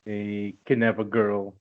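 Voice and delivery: slow, sarcastic plot summary. Real, not acted. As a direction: drag it out with sarcasm. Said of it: "I'm just being sarcastic with it".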